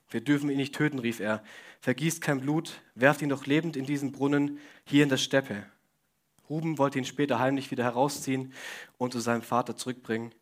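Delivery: measured Bible reading to the congregation; scripture reading. Acted. Preacher reads Bible passage aloud.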